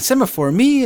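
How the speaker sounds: high, loud offended cry; indignant outburst. Retold or imitated. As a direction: shoot up in pitch, insulted. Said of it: "Tintin's mad".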